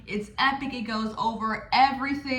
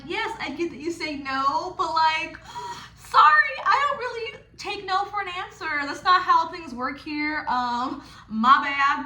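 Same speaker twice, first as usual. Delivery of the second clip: playful pressure; 4 semitones higher than usual. Retold or imitated. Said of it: "playful ... while still applying pressure".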